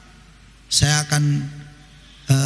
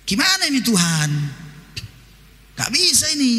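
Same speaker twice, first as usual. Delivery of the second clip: mock fretful plea; 4 semitones higher than usual. Acts out fretful prayer to God.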